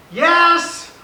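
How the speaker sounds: high, loud snapped yell; upset daughter. Retold or imitated. Upset daughter brushing off dad's "is everything okay", high angry yell. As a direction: imitate an upset kid yelling it like a no. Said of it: "I can tell she's upset".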